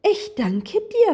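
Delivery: high, lilting thanks; softly cooing. A narrator's reading. Rainbow voice thanks the little hare, high cooing. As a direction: coo it in a high story voice. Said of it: "säuselte die Regenbogenstimme".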